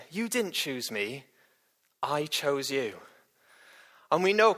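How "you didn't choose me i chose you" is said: quieter, slower, letting it sink in; soft repeat. Acted. Preacher repeats the verse softly so it sinks in. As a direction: drop the voice and linger on "didn't". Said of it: "repeated to let it sink in".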